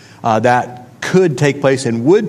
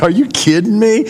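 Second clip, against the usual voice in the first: raised, higher indignant retort; retold yelling; 8 semitones higher, 3 dB louder than usual. Retelling a scam phone call, yelling back indignantly. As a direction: snap back at the scam caller, higher and louder. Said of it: "And I was yelling at him".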